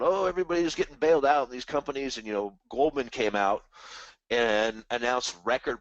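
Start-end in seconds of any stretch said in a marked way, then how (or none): 0.0-2.2 mock whining. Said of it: "whining and crying about".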